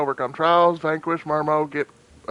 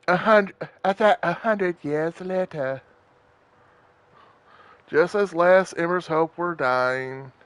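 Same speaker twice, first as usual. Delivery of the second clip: creepy disembodied voice. Acted. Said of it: "be a creepy, disembodied voice".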